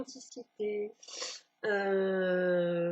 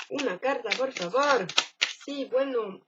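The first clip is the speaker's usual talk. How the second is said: speaking Spanish. Pretend. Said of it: "comment on dit conseil en espagnol".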